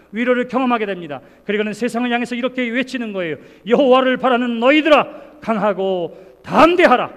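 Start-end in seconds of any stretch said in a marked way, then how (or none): 3.7-7.1 loud, slow proclaiming of the psalm; full-force preaching. Acted. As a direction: call it out to the world, slowly.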